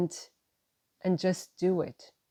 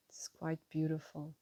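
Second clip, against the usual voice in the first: whispered aside; 9 dB quieter than usual. Real, not acted.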